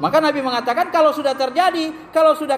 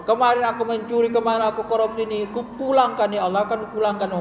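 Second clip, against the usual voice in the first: acted tearful repentance; 2 semitones lower than usual. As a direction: imitate a weeping penitent's pleading.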